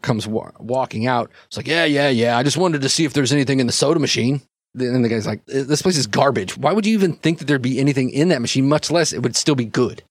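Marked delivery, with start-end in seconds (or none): 1.7-4.4 brisk, slightly raised dismissive orc; a hint of a casual orc thug; lightly voiced orc. Voices the orc brushing off his partner. 5.5-10.0 quick, mildly exasperated nagging; a touch of disgusted disbelief; lightly voiced annoyed partner. Voices the annoyed jumpsuit man.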